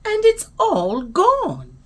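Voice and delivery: high, drawn-out wail of a little bear; squeaky little bear. A narrator's reading. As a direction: squeak out the loss, slowly and high. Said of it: "he squeaked".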